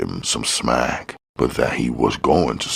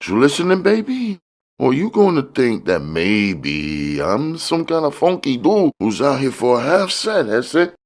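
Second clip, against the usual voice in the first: high, slightly louder put-on voice of a sly dealer; a much higher voice for the smiling fat man; George's voice; 4 dB louder than usual. A narrator's reading. The dealer sizing up Curtis, high sly hustler voice.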